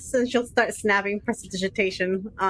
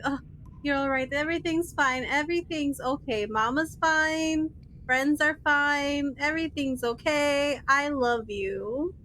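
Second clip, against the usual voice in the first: soothing, slowed reassurance to a pet; comforting pet; 2 semitones higher than usual. Acted. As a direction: gently coo reassurance to a frightened little animal. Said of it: "It's like".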